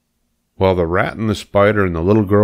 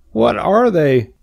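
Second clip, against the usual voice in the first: sadly; 13 semitones higher, slower than usual. Acted. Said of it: "asked Wilbur sadly".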